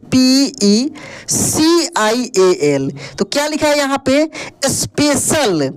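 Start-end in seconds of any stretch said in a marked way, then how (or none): 4.7-5.7 slowly drawn-out स्पेशल; slow reading. Shown as a demonstration. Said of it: "क्या पढ़ेंगे इसको?".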